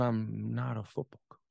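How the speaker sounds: low, grave but voiced retelling; a father's quiet, firm admission; kindly father. Father explaining himself to his son, kindly and low. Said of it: "he kindly regarded me and said".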